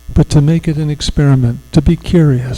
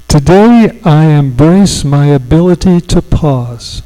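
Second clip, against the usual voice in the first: affirmation to repeat; 3 dB louder than usual. Shown as a demonstration. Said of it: "you're gonna repeat it after me".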